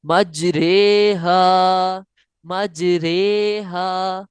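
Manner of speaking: मजरेहा with the रे like कतरे, slow and drawn; imala recitation. Shown as a demonstration. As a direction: say मजरेहा with रे, not रा or री. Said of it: "इसको मजरीहा नहीं पढ़ना।". (मजरेहा में इमाला के साथ रे)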